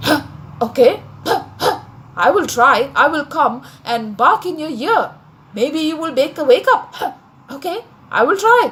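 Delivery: lightly voiced dog with little barks; helpful dog. Dog promises the donkey to try waking him, helpful. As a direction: punctuate the words with short huffed barks.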